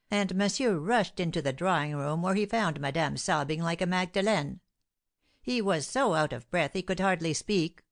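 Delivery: lightly voiced fussy servant, eager to tell; a hint of a gossiping servant; excited servant. Baptiste recounting to the men.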